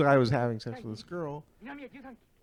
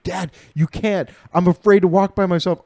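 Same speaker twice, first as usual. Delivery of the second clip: whiny kid imitation; 7 semitones higher, 7 dB louder than usual. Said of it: "He's like".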